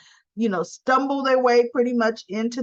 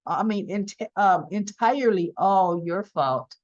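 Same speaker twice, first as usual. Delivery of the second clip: imitated coyness; 4 semitones lower than usual. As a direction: play it coy, low and halting. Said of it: "coy expression on her face".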